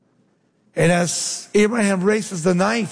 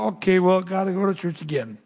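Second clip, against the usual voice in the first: unexcited, reluctant; faster than usual. Acted. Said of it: "have we lost the excitement".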